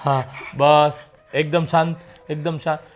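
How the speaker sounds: low, hushed calming voice; gently calm someone agitated; soothing. Acted. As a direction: settle him down softly and low.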